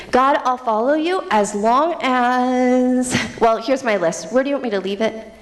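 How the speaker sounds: bargaining believer. Acted. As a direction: act out a believer bargaining with God. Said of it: "We want the welfare Christianity".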